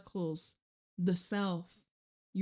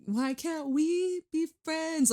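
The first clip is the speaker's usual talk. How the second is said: mock exasperated; 8 semitones higher, 5 dB louder than usual. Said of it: "Be like".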